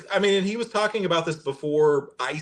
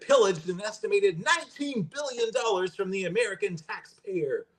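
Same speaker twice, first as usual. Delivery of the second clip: raised, laughing try at a Trump voice; Trump impression; 7 semitones higher than usual. Host reads Trump's Somali claim to cohost, in a laughing mock Trump voice. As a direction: ham up Trump's words, cracking up. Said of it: "I can't do a Trump impression".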